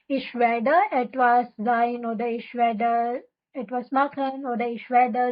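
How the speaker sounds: very slow, spelled-out German example; slow example reading. Shown as a demonstration. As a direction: lay out the pattern word by word. (धीमे धीमे उदाहरण पढ़ना)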